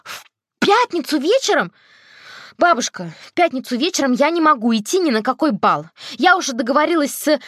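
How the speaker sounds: rising panic at the clash; panicked. A narrator's reading. Girl protests to grandmother, high and panicked.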